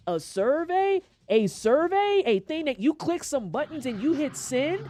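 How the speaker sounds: high, emphatic indignation; indignant disbelief. Real, not acted. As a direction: hit every repeat of it, incredulous. Indignant rant about trivial survey.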